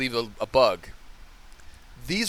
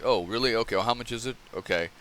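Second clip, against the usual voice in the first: acting all calm; 3 semitones lower, 4 dB quieter, faster than usual. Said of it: "I just acted all calm and like".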